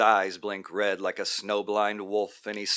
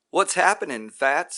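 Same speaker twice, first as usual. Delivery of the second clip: high, loud and delighted; joyful greeting; 8 semitones higher, 7 dB louder than usual. A narrator's reading. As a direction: call out to him full of joy. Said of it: "says Roy with joy".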